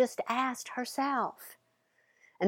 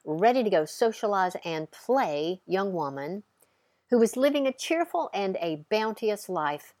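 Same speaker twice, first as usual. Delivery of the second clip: storytelling narration. A narrator's reading. Storytelling opening.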